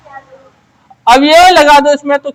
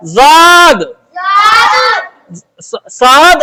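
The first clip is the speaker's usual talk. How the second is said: called out letter name; 3 semitones higher, much slower than usual. Shown as a demonstration. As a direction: belt the letter out to the class. Teacher calls out the letter. (अक्षर का नाम ज़ोर से पुकारना)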